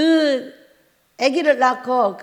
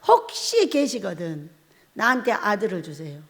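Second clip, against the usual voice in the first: quiet prayer; 5 semitones lower, 4 dB quieter than usual. Retold or imitated. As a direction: plead gently with God. Praying to God for a son.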